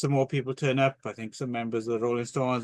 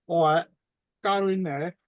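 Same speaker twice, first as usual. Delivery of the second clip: failed Cockney; 3 semitones higher than usual. Retold or imitated. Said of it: "I can't do the accent".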